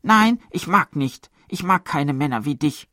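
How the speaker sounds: high, loud pouting woman's refusal; cold voice. A narrator's reading. Matron mimicking a woman rejecting a man, cold. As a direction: wave him off coldly. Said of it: "mit kalter Stimme".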